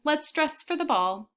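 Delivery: play-acting a grand lady with a doll; doll game voice. Girl voices paper doll.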